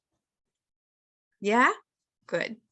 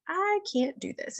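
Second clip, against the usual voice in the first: imitating a daughter's high-pitched protest; mock kid complaint, pitched way up; overwhelmed child; 10 semitones higher, 3 dB quieter than usual. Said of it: "she's starting to feel overwhelmed".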